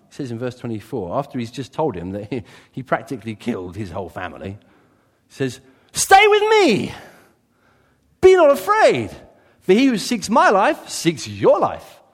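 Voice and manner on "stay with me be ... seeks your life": big, high and loud declaration, slowed down; booming proclamation. Acted. Preacher booming David's words to the priest's son, loud and slow. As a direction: proclaim it like a king calling out across the cave.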